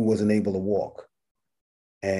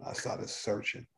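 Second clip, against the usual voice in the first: slow, breathless whisper repeating it; whispered echo; 14 dB quieter, slower than usual. Real, not acted. Telling the host how he hunted for his old patient, whispered. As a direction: drop to a hush and let it linger. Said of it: "I looked for him and I started searching".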